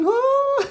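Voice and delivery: very high falsetto whoop; playful falsetto woo. Pretend. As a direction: let out a shrill-high cheer. Singing cheer.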